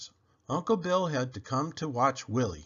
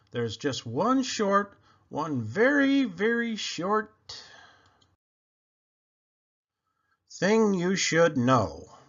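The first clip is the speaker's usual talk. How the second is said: sheepish build-up; 5 semitones higher, 3 dB louder, slower than usual. A narrator's reading. Uncle breaking news to mother.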